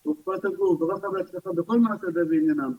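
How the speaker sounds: brisk, evenly recited blessing; prayer for healing. Real, not acted. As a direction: rattle off the blessing, drawing out the final words. Recites closing blessing for the sick. (prière de guérison récitée rapidement)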